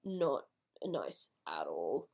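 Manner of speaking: blocked nose, nasal tone. Real, not acted. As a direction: sound stuffed up and nasal. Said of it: "really nasally voice right now".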